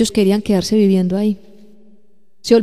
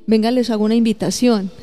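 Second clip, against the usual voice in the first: ordinary talk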